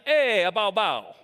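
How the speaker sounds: loud drawn-out lead-in, then two barks; Italian dog bark. Shown as a demonstration. Speaker showing how Italian dogs sound, playful barking. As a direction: bark it with a big 'eh' first.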